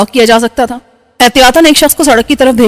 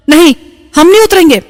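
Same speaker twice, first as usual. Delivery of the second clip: woman crying out in fear, pitched up; frightened cry; 5 semitones higher than usual. A narrator's reading. Woman refusing to leave the car, frightened outcry. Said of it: "وہ چلانے لگی".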